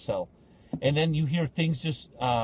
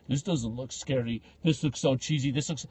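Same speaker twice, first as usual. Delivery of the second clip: slightly lowered, dismissive bluster; imitated tough guy; 4 semitones lower than usual. Man showing off for his family, lightly mocked bravado. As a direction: lightly put on a man acting unimpressed. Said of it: "he was trying to act tough for his family".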